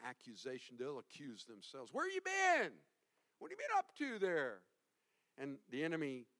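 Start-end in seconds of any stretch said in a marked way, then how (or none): 1.9-4.6 playful Southern twang on the question; southern accent. Acted. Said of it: "I like to put a little southern accent in there".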